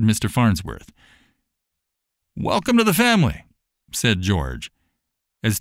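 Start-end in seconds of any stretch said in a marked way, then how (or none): 2.4-3.4 high, quick, bright welcome; cheerful welcome. Acted. George welcomes the family, quick high cheerful voice. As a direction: beam as you welcome them in.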